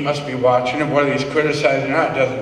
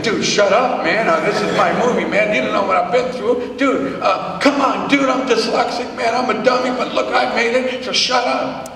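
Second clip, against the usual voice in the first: mock angry rant; 5 semitones higher than usual. Speaker imagines scolding the man whispering during his movie, mock angry. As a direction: tell the whisperer off, hammed up. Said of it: "I'm getting mad 'cause this guy's whispering".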